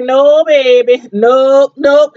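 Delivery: put-on drawn-out New Orleans "no, baby"; country New Orleans accent. Imitating the mom turning the job down, New Orleans accent. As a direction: refuse firmly in imitated Southern New Orleans speech. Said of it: "such a country Southern New Orleans".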